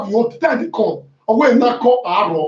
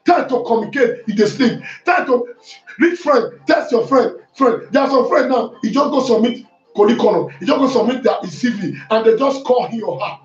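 fiery preaching; 2 semitones higher than usual. Acted. Pastor preaching to his church, fiery and driving. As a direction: preach it hard to the congregation.

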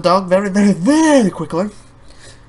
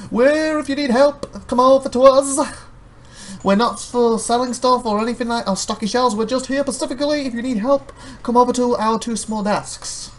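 mock help-desk staff; 7 semitones higher than usual. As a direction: invite customers over sweetly.

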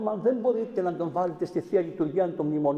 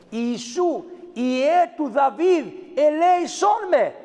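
crying out for mercy; 6 semitones higher, much slower than usual. Retold or imitated. Blind beggar calling out to Jesus for mercy, pleading shout. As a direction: call out like a blind man begging from the roadside. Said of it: "φώναζε".

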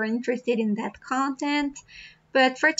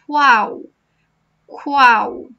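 stressed drill word; 6 dB louder than usual. Shown as a demonstration. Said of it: "Practice here".

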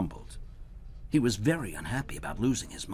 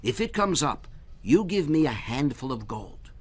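lightly voiced Herschel, raised and eager; Herschel explaining; 6 semitones higher, 5 dB louder than usual. Herschel teaching the goblin the game, eager and bright.

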